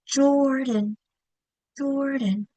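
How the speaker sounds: Jordan leaning on the first syllable; head-thrust stress. Shown as a demonstration. Teacher demonstrating the head thrust, Jordan stressed at the front. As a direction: push out the "Jor" of Jordan. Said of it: "You can do the head thrust".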